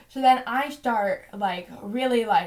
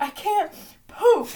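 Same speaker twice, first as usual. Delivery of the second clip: higher, louder, slower through laughter; laughing while mock-despairing; laughing confession; 10 semitones higher, 8 dB louder, slower than usual. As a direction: wail it half-laughing. Retelling her desperate confession.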